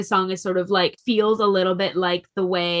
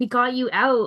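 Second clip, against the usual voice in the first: put-on voice with a broken tone; 4 semitones higher than usual. Retelling a scene where Dean speaks to the rescued Sam, imitating Dean's broken tone. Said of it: "in this sort of like broken tone".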